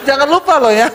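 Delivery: mock-sweet parting reminder; smiling reminder. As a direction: remind them with a smile in the voice. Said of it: "Tapi sambil senyum".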